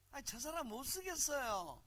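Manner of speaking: high-pitched mock Seoul accent; 서울말 흉내. Shown as a demonstration. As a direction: put on a polite, soulless Seoul voice. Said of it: "영혼이 없는 언어지". (높은 음의 영혼 없는 서울 말투)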